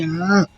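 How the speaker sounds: short mock cry in answer; imitated crying. Shown as a demonstration. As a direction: mimic crying along with someone. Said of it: "I'm gonna cry".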